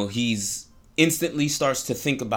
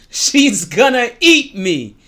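scared Pumbaa; 9 semitones higher, 9 dB louder, slower than usual. Retold or imitated. Pumbaa terrified.

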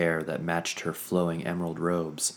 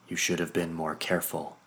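chiding. Acted. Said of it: "Her chiding remark".

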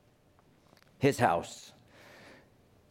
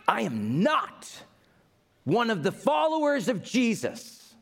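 frantic denial; 9 semitones higher than usual. Acted. Peter denies being a follower.

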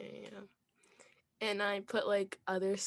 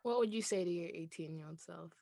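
whisper; 3 semitones lower, 5 dB quieter than usual. Real, not acted. Dramatic question build-up.

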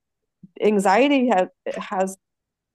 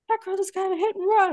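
higher, fast excited report; excited gossip; 9 semitones higher, faster than usual. Retold or imitated. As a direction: blurt it out breathlessly. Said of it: "the ladies at Sonic were like".

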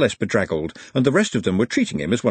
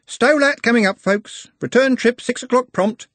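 calling out louder and higher to passengers; raised voice; 14 semitones higher, 4 dB louder than usual. A narrator's reading. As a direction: announce the stop to the whole bus. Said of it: "He raised his voice".

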